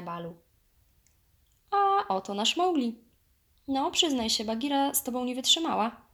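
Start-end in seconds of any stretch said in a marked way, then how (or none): 1.7-6.1 much higher, louder, merry teasing; hearty jovial bear. A narrator's reading. Bear teasing the boy he just met, jovial. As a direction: boom out a jolly greeting. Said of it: "Balu zaśmiał się gromko".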